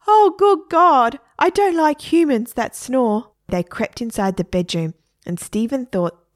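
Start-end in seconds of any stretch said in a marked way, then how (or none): 0.1-4.0 high, loud, slow appalled parrot; a parrot appalled by snoring humans, high and loud; disgusted parrot. A narrator's reading. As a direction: groan it out in disgust.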